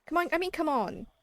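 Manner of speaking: eager, playful insistence; excited. Real, not acted. Excited pleading to viewers.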